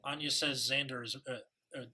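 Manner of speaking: put-on reading with a British accent. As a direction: read it like an English gentleman. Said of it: "I can either speak in a British accent".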